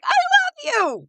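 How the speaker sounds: very high, drawn-out yell; hammed-up gushing TV judge; Judge Jeanine Pirro. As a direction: screech it slowly in a harsh New York accent. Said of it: "and she's like".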